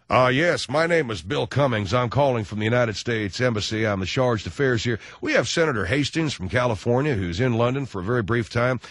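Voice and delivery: lightly voiced formal diplomat; embassy official. Chargé d'affaires calling for a senator, lightly official.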